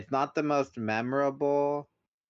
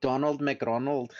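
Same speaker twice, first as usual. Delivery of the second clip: playful mock announcer; 3 semitones higher than usual. Playful mangled name.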